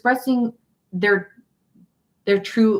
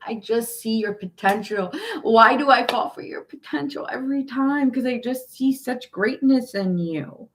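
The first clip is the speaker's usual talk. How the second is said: wistful admiration; 5 semitones higher than usual. Retold or imitated. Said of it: "It's like".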